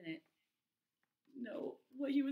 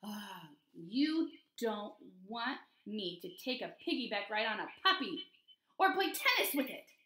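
frustrated pigeon. Acted. Pigeon denied rides on a puppy, frustrated. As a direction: drag out the grievance, then lift it. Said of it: "He looks maybe a little frustrated".

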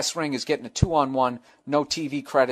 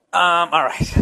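laughing; 3 semitones higher, 6 dB louder, slower than usual. Real, not acted. Laughs after awkward remark.

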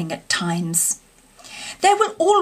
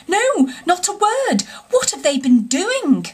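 trembling; 8 semitones higher than usual. A narrator's reading. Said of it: "trembling in every limb".

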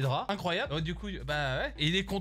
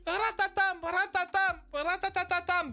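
high rattling "ratatam" bursts; imitated gunfire; 8 semitones higher than usual. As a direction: mouth a helicopter gun firing. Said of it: "un Apache soixante-quatre qui tire dessus". (bruitage de mitrailleuse, aigu)

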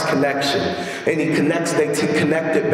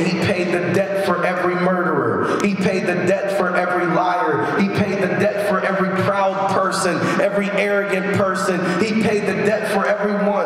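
higher-pitched, insistent preaching refrain; impassioned preaching; 4 semitones higher than usual. Real, not acted. Preacher telling church the debt is paid for everyone, impassioned. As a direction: drive each repeated phrase home like a preacher.

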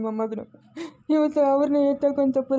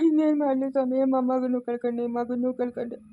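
crying. Acted. Grieving old man, lost son.

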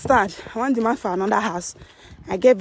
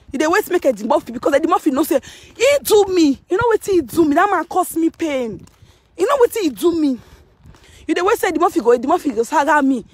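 raised, higher ranting complaint; heated rant; 5 semitones higher than usual. Real, not acted. Venting at listeners about the man who wronged her, heated. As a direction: let the grievance climb in pitch.

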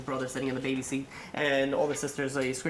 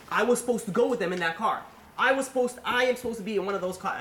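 raised, higher-pitched survivor's guilt; acted anguish; 7 semitones higher, 3 dB louder than usual. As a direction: protest in grief, voice lifted. Acted grief and guilt at funeral.

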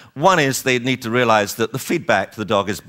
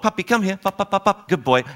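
inviting lure; 8 semitones higher than usual. Shown as a demonstration. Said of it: "it's simple lure and reward".

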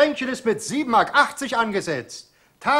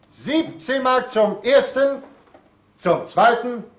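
auctioneer countdown; 3 semitones higher than usual. Acted. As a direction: build to a ringing final call.

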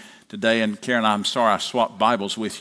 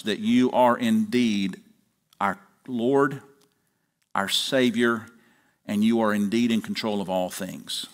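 public prayer; 3 semitones lower than usual. Acted. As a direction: lead the congregation in prayer, settling into a hushed amen. Pastor leads congregation in prayer.

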